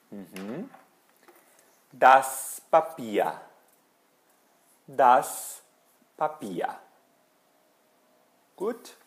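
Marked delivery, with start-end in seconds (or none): 1.9-3.4 slow "Das Papier", strong on "Das"; careful teacher's model of "Das Papier"; model for repeating. Shown as a demonstration. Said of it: "Falando comigo". 4.9-6.7 careful two-part "Das Papier" for learners; model for repeating. Shown as a demonstration. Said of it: "Falando comigo".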